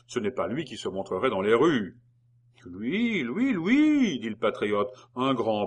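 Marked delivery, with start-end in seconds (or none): 2.7-4.2 much higher, louder repeated lui; excited insistence. Acted. The patriot insists to Fouquier he saw Maison Rouge, climbing excitedly.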